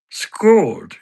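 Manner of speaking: high, loud impression, "Scold" with a long pure vowel; Patter. Character echoes his baffled mate, high impression saying "skawld". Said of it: "I can do an impression of Patter".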